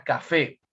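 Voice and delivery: "café" with the weight on its last syllable, fé; teacher's demonstration of "café", stressed at the end. Shown as a demonstration. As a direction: lean on the "fé" of "café". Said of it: "la mayor fuerza de voz está en la sílaba fe".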